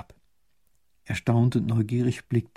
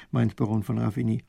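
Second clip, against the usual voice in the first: ordinary delivery, nothing marked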